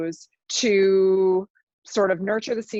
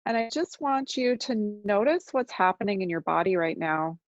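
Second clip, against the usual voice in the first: unhurried meditation guide with long silences; guided meditation. Real, not acted. Teacher guiding listeners to notice their body, calm guided meditation. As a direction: ease listeners into noticing, leaving long pauses.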